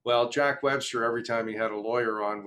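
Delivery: usual speaking voice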